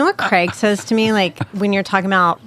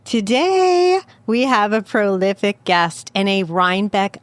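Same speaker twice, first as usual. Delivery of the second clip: radio host intro. Acted. Host welcoming listeners and introducing the guest, measured radio announcer read. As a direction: open the show like a polished radio host.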